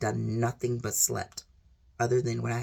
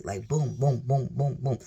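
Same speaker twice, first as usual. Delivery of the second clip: heartbeat booms. Shown as a demonstration. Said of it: "My heart is racing".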